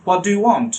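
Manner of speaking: American "What" with breathy h, "hwot"; American pronunciation. Shown as a demonstration. Teacher showing how Americans say it, American "hwot". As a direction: imitate American hw at the start of "What". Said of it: "আর American বলবে".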